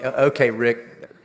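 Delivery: lightly voiced skeptical listener; mild mock objection; voicing the congregation. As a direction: play the doubting churchgoer. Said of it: "You're thinking".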